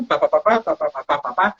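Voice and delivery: rhythmic "pá" taps; quick spoken tapping effect; imitated work noises. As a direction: patter out the busy work sounds. Imitates working at the harness.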